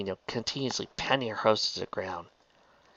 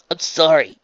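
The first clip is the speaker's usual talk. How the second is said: remorseful; 7 semitones higher, 10 dB louder than usual. A narrator's reading. Apology after the quarrel.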